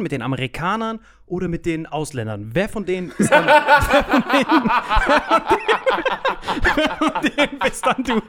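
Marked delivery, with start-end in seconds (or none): 3.2-8.2 cracking up while asking; high, laughing, barely get the question out. Real, not acted. Teasing a friend about film sides, laughing.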